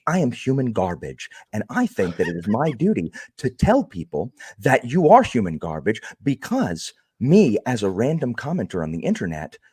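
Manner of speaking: a hint of a pompous know-it-all lecturing the viewers; snooty YouTube commenter. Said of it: "That's my impression of a YouTube commenter".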